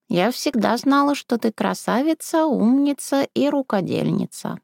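lightly voiced crafty old woman. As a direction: coax her like a sly old granny. Old woman character speaks.

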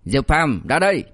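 mock stern shout. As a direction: sternly summon him out, acting tough. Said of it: "cố tình nghiêm giọng quát".

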